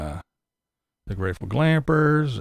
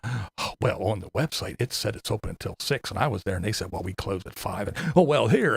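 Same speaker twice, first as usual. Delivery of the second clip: mocking Tater; 4 semitones lower, 4 dB quieter than usual. Mocking Tater's complaint, quiet.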